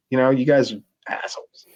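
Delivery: hushed, under-the-breath jab; the teller whispering the insult he held back; whispered insult. Retold or imitated. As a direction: say it so nobody hears. What he wanted to say.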